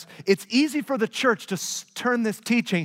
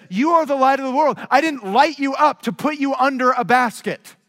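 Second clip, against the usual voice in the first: emphatic proclamation; 5 semitones higher, 4 dB louder than usual. Acted. Quoting Jesus with force.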